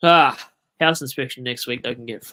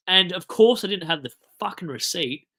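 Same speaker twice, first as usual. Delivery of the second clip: higher, exasperated venting; worked-up grumble with a loud start; wound up; 6 semitones higher, 4 dB louder than usual. Real, not acted. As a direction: vent the frustration, starting loud. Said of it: "this is why I'm wound up".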